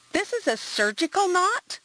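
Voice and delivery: sudden high startled question. A narrator's reading. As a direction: caught off guard, asking quickly.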